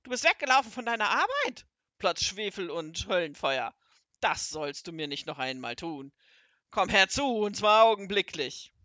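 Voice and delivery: very loud raging commands; furious yelling. Acted. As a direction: thunder at the runaway servant. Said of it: "rief er".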